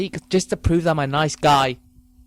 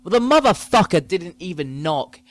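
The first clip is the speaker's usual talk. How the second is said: usual speaking voice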